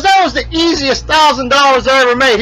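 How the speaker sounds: high-pitched, gloating mock glee; imitated hysterical amusement. Bet winner gloating about a thousand dollars, acted hilarity. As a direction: crow over the easy winnings. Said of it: "laughing like a hyena".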